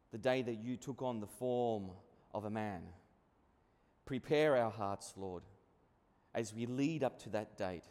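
low, soft, unhurried prayer voice. Acted. Pastor leading the congregation in prayer, low, hushed prayer. Opening prayer before sermon.

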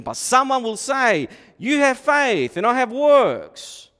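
loud, high, slow proclaiming; forceful reading. Acted. Preacher proclaiming the verse to the church, loud and slow. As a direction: declare the verse like a herald.

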